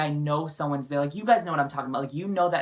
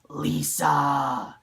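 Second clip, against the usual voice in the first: ghost impression. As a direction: moan the name like a demon ghost. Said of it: "That's my impression of a ghost".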